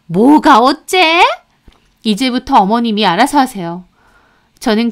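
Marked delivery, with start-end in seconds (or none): 0.1-1.2 put-on slow, higher, indignant older woman; outraged retort. Mother-in-law outraged at daughter-in-law's refusal, slow and indignant. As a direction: spit it back in disbelief.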